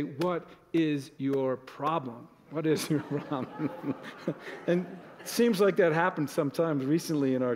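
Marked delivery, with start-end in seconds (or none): 0.0-3.9 slow, drawn-out what is your problem; half-laughing, mock irritated snap at the spouse; mock snapping spouse. Sighing spouse gets a slow mock snap. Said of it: "your spouse sighs and you say". 4.0-4.6 short breathy laugh. Real, not acted. Laughs after example.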